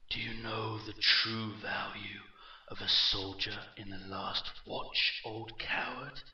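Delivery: echoing, mocking villain voice; slow and mocking. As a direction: taunt an old enemy with measured menace. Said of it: "his voice slow and mocking".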